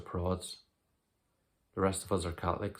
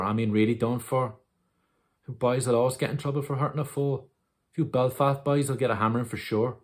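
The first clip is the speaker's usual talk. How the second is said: raised, louder, pressing storytelling; urgent intensity; 3 semitones higher, 5 dB louder than usual. Acted. Recounting to Dom the moment he drowned the foal, urgent. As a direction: drive through the crisis with mounting urgency.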